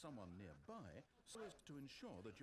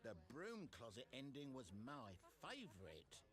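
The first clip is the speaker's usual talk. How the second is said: mock excited player; 4 semitones higher than usual. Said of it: "you'll say".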